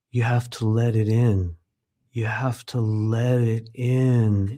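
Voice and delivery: creepy sing-songy voice. Retold or imitated. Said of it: "in this creepy, creepy way".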